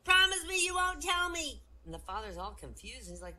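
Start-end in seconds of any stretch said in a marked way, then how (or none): 0.0-1.6 put-on very high, loud child's plea; hammed-up tearful little-boy wail; bursting into tears. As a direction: beg like a bawling child. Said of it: "he burst into tears".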